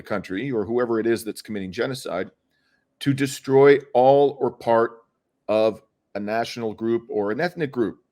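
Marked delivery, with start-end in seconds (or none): 3.0-5.0 "part" drawn out slow and louder; stress on part. Real, not acted. Lawyer defining genocide to a host, leaning hard on "part". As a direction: lean hard on "part" slowly. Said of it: "I stress the word part".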